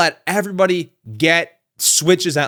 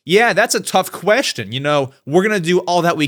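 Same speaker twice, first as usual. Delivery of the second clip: casual human answer. Pretend. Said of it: "What he probably said was like".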